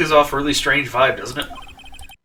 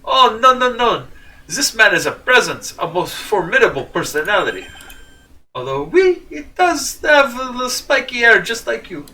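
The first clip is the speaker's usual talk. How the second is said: put-on higher, melodramatic French accent; terrible French accent; 6 semitones higher than usual. Debtor describes the frightening mobster, in a higher French accent. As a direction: dramatize it in a mock French accent. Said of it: "In my terrible French accent".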